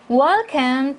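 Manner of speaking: "welcome" hit firmly and drawn out; stress on welcome. Shown as a demonstration. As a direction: punch "welcome" as a slow, clear model. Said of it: "당연히 강조해 주셔야 되죠". ("welcome"을 강조해서 또렷하게)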